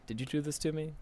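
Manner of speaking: starts hurt, ends in a high, loud, slow cry; building to shout. Acted. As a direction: let the hurt swell into a scream of betrayal. Reads Monika's lines, rising.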